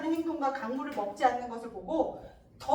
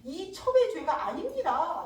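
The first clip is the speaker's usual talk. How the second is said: protesting. Acted. Concubine protesting her innocence to her lord, mild protest. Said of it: "라고 이제 항변하는 거지".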